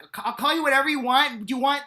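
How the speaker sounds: high, fast, loud mock eagerness; eager millennial. Millennial lover offering anything in bed, high eager rush. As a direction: rush to please in a squeaky put-on voice. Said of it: "they were like".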